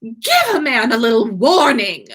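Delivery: calling out. A narrator's reading. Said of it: "Draco called".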